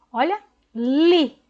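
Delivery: li said as one clear syllable; sounding out LI. Shown as a demonstration. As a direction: read the syllable li for the child. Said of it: "agora ficou".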